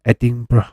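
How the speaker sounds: Edinburgh said as "At-ting-bra", each syllable sounded; exaggerated pronunciation. Shown as a demonstration. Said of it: "I say it like that".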